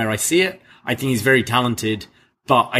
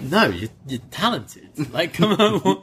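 incredulous, pitched way up on come on; mock exasperated retort; 7 semitones higher, slower than usual. Co-host mocking the promo line, exasperated scoff. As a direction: scoff at the line like it's absurd.

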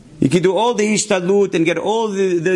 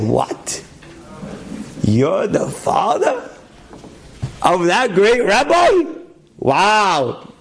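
drawn-out amazed question, rising on father; slow, stunned wonder at the news; amazed disbelief; 3 semitones higher, much slower than usual. Retold or imitated.

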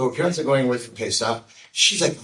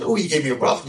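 higher, mildly excited imitation; 4 semitones higher, 3 dB louder, faster than usual. Girl thanking the rabbi for his blessing, excited. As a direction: retell her delight with a lift in pitch. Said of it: "So she's all excited".

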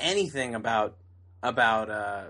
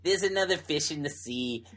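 hammed-up South African accent. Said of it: "the worst South African accent I've ever heard".

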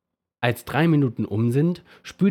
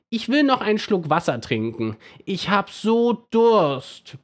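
begging toothbrush; 10 semitones higher than usual. A narrator's reading. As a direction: beg for a drink like a whiny little brush. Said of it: "bettelt die Zahnbürste".

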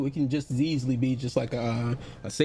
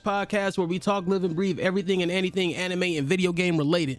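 polished announcer intro voice; upbeat host intro read; podcast host voice; 4 semitones higher than usual. Real, not acted. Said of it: "That's your white people voice".

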